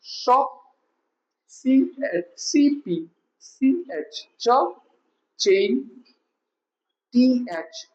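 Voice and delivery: letters, blended sound, then word: "બી એલ, બ્લ, બ્લેન્ક"; phonics blending demonstration. Shown as a demonstration. Teacher showing pupils consonant blends, sounded out piece by piece. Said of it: "કઈ રીતે આપણે આ double લેટરના".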